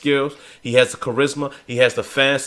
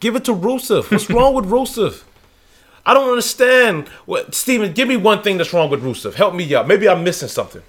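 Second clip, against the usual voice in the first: indignant disbelief; 7 semitones higher, 3 dB louder than usual. Real, not acted. Incredulous defence of Rusev.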